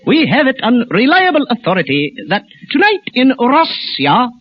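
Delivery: grave, measured newsman with weighty pauses; news commentator impression. Comic at supermarket show, solemn news commentator voice. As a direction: read it like a solemn radio commentator. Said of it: "impersonation will be a well-known news commentator".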